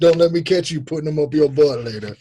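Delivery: put-on Alabama twang; Alabama accent. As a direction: warn like a mock Alabama cop. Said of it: "That's all our Alabama accents".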